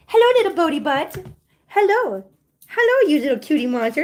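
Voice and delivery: high sing-song cooing at a kitten. Real, not acted. To little Bodie under the table, high cooing baby talk.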